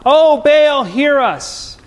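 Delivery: mock yell. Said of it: "so I yell louder".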